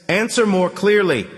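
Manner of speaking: nasal voice. Acted. Handset voice again.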